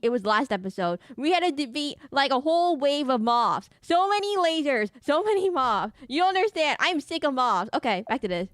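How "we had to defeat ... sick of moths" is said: overacted moth rant. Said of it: "I just overacting".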